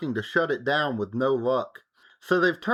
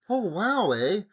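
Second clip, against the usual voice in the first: bad Southern accent. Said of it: "can't do Southern accents very well".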